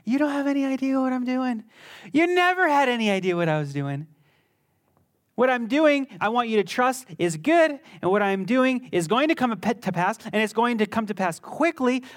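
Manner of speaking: light, laughing and knowing; Jesus voiced. Jesus laughing at his stubborn people, amused. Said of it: "He's like".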